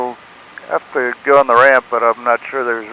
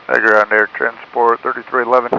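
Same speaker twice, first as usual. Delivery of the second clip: radio-filtered pilot voice; speaking through a cockpit radio; pilot over the radio. Real, not acted. Pilot calling tower by radio.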